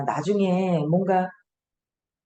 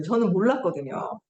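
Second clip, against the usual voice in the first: normal talking voice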